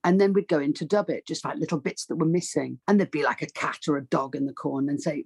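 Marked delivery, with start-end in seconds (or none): none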